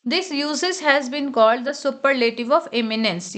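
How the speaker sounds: slow, careful reading of the rule; teacher reading out a grammar rule; rule read aloud. Acted. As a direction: read the textbook line slowly. Reads rule text slowly.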